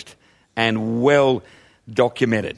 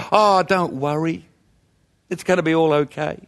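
carefree cavalier. Retold or imitated. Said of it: "so carefree and so cavalier as to say".

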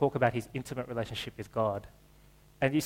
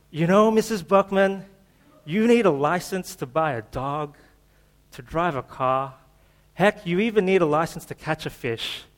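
higher, louder, laid-back movie-dude voice; Keanu Reeves accent; 4 semitones higher, 7 dB louder than usual. Retold or imitated. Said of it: "I'll do it with my Keanu Reeves accent for you".

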